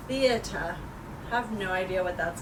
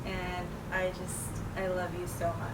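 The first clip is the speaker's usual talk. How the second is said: tender and soft; 6 dB quieter than usual. Real, not acted. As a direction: say it softly to someone you love. Tender message to loved one.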